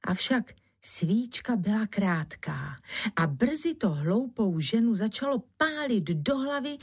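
ordinary delivery, nothing marked

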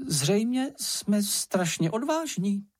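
high, drawn-out boastful exclamation; Čenich exclaiming. A narrator's reading. Small companion boasts of their bravery, exclaiming. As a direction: proclaim it slowly in a high voice. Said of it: "zvolal Čenich".

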